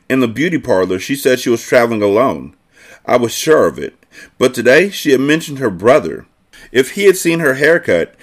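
lively reading of a novel; story narration. A narrator's reading. Narrator reads a girl's thoughts about Alex, expressive storytelling.

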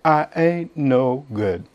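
unpolished Oklahoma saying, slow and soft; slow Oklahoma accent. Shown as a demonstration. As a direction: let the Oklahoma twang settle on each word. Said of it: "that's how they say it in Oklahoma".

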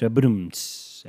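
mock rimshot. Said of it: "That was a joke for ya".

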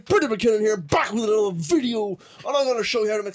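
lightly hyped vlogger greeting, quick at the end; YouTuber intro. Shown as a demonstration. Host imitating Peter McKinnon's intro, light hype. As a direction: sell it like a YouTube tutorial. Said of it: "Try a YouTuber".

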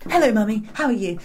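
sugary fake talk to mum; fake posh voice. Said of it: "It's like, fake".

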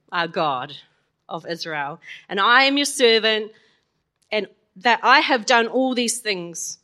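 slow, earnest scripture reading; prayer reading. Acted. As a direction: read the prayer solemnly. Reads Elijah's prayer.

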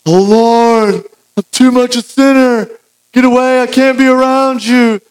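Peter overwhelmed. Retold or imitated. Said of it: "He's like".

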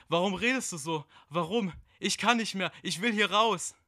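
hohe, laute, tränenerstickte Panik; weinend verzweifelt. Acted. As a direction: flehe unter Tränen immer verzweifelter. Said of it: "seine Stimme wurde ... immer erschütternder". (hohe, laute, weinende Verzweiflung)

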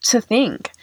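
real tearful voice, pitched high; tearing up. Real, not acted. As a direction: talk through rising tears, voice climbing high. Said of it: "I'm tearing up".

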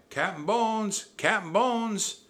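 high, loud shouting; pirates' cry. A narrator's reading. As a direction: take up the cry for the captain. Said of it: "The pirates took up the cry".

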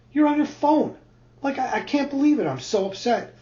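rising exasperation, pitch climbing toward the end; frustrated complaint. Retold or imitated. Husband scolding wife for being on her phone, building upset. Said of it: "I'm really frustrated by this point".

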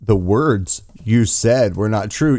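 slow, incredulous mock quote; drawn-out mocking echo; mocking repeat. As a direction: parrot the prosecutor with disbelief. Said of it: "Yeah, that's how sarcasm works".

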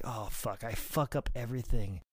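soft, dejected self-reproach; retold sheepish mutter to himself; embarrassed. Wrestler after botching the finish, embarrassed. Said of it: "I was, like, kind of embarrassed".

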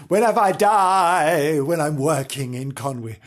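lightly voiced pleading maid; a mock plea from the dying maid; pleading chambermaid. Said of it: "she stipulated".

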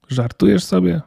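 alarmed, high-pitched question; frightened disbelief. A narrator's reading. Elf threatened with a cage by the girl, frightened disbelief. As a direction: voice leaps up in mild fright. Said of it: "Przestraszony nie na żarty".

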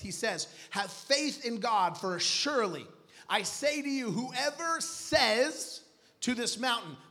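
emphatic, projected sermon delivery; preaching scripture. Acted. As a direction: declare the verse to the congregation.

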